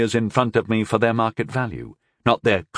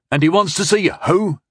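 high-pitched, puzzled question; playing innocent and baffled; feigned confusion; 9 semitones higher, 3 dB louder than usual. A narrator's reading. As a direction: act as if you have no idea who. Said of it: "feigning confusion".

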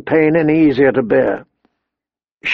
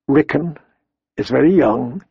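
gently. A narrator's reading. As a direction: ease it to her tenderly. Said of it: "he said gently".

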